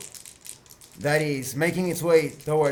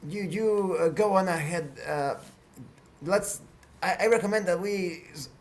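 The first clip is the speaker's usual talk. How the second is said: Arisa; 3 semitones higher than usual. Acted. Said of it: "Arisa speaks".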